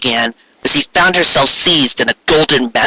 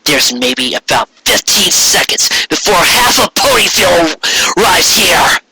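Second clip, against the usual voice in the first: urgent warning; 5 semitones higher than usual. Acted. Raindrops warns of mob.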